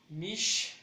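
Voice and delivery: "mishta" split as mish, ta; syllable by syllable. Shown as a demonstration. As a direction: break "mishta" into two beats. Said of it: "Yo le daría mucho".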